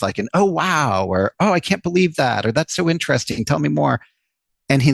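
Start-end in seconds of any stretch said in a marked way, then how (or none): 0.3-1.1 bright, eager "Oh, wow" set clearly higher; excited interjection. Shown as a demonstration. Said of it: "jumping in with". 1.4-2.4 pitched high, eager disbelief; surprised interjection. Shown as a demonstration. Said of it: "jumping in with". 2.5-4.0 higher, keen "tell me more"; eager interest. Shown as a demonstration. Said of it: "emphatic interruptions".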